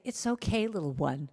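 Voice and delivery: soft, tender reassurance; soothing self-talk. Acted. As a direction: comfort your inner child gently. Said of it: "for you to stop and say".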